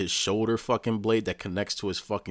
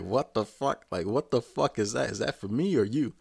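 higher-pitched, baffled questioning; mock incredulous; 4 semitones higher than usual. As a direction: imitate her baffled disbelief. Retelling her shocked face.

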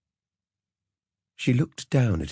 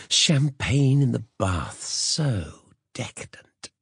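indulgent; 6 semitones higher, slower than usual. Acted. Heroine savours luxury, slow.

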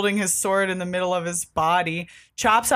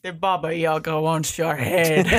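fake Russian accent; 2 semitones lower than usual. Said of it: "Russian Glow character".

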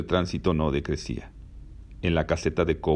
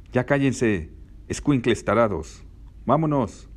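higher-pitched mild scolding call; mildly exasperated, raised voice; annoyed scolding; 7 semitones higher, slower than usual. Acted. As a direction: tell off a bunch of noisy kids. Annoyed passengers scold noisy kids.

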